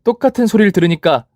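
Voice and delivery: scornful taunt. Acted. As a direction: throw her old words back. Final taunt of rival. (높게 경멸하며 조롱하는 말투)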